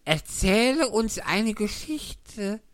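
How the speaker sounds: loud, slow, bored hare voice; March Hare. Acted. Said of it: "sagte der Faselhase". (gelangweilter Faselhase, laut und langsam)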